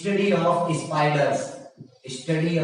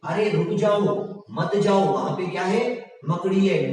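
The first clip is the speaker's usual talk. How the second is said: acted warning; 2 semitones higher than usual. Teacher showing what you would tell someone, acted warning. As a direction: pretend to call someone back. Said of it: "क्या कहोगे किसी से?".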